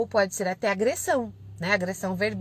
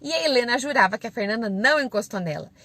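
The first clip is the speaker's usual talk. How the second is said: ordinary talk, nothing marked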